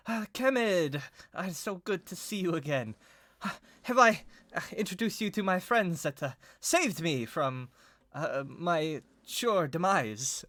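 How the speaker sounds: high, halting, nervous greeting; jittery young lord, slowing as he stumbles on. Acted. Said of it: "giggles kind of like, um, nervously".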